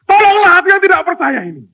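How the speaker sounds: fast, high, loud plea; desperate plea. Acted. Father confessing his doubt to Jesus, fast high plea. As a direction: blurt the plea out in a rush. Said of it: "Sepersekian detik dia sadar".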